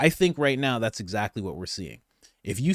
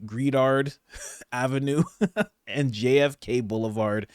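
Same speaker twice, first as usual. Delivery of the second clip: Gredard read with laughs breaking in; laughing through it. Real, not acted. Vlogger laughing at his own mispronounced street name. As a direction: giggle over the mangled Gredard.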